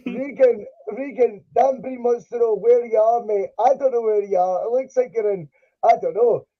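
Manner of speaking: muffled mic, like underwater; bad mic, sounding underwater. Real, not acted. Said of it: "You sound like you're underwater".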